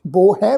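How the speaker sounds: ਬੋ ਹੈ as two distinct words; pronunciation demo. Shown as a demonstration. Teacher shows the congregation the reading, ਬੋ ਹੈ distinctly said. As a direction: say ਬੋ ਹੈ clearly, with open "ai" on ਹੈ. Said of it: "ਪਾਠ ਹੈ ਜੀ".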